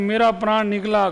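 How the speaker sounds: quick quoted मेरा प्राण निकला said as the mistake; quick mocking quote of the wrong usage; wrong form quoted. Shown as a demonstration. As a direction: toss off मेरा प्राण निकला fast, as a common error. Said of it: "गलत है".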